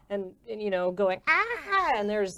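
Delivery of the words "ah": higher frustrated "ah"; stressed groan. Acted. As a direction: let out a worried cry. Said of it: "very stressed out middle-aged man".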